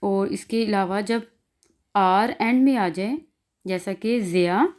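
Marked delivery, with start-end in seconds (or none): 4.2-4.7 ज़िया ending in an open "aa", no R; vowel ending on ज़िया; final R as A. Shown as a demonstration. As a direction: say ज़िया with the last R turned to "ah". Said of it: "आर को हम आ में बदल देते हैं".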